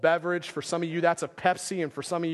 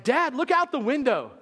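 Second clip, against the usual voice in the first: higher, urgent mock demand; insisting daughter; 6 semitones higher than usual. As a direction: push it like an upset kid who won't be ignored. Angry daughter insisting to dad.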